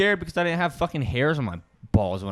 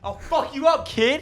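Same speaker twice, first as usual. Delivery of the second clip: being tickled; 11 semitones higher, slower than usual. Real, not acted. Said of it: "Stop tickling me".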